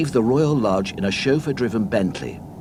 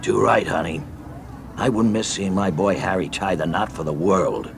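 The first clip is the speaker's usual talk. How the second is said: a hint of a proud American husband; lightly voiced tourist, fond of Harry; American husband Chuck. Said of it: "replied Chuck".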